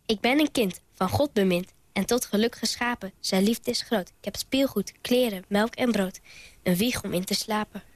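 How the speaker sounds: singsong rhyme recited with a gentle lilt; child's recited poem. Acted. Little girl reciting a children's prayer rhyme, singsong. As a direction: recite it like a learned prayer verse.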